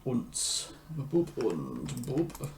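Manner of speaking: put-on slow, hammy German accent; bad German accent. Composer checking the piano part, horrible German accent. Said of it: "German accent is coming from".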